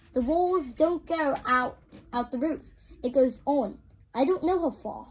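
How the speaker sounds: Polly's line redone in a British accent. Shown as a demonstration. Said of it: "my British accent".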